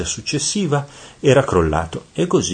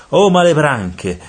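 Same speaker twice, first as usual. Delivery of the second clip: high, loud, drawn-out call; shouting; 9 semitones higher, 6 dB louder, slower than usual. A narrator's reading. Black devil hails his fellow demons, shouting. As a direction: holler to the gang, slow and high.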